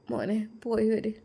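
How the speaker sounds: put-on a tearful mother sending her boy off; mother's farewell. Mother bidding her son goodbye, soft and high.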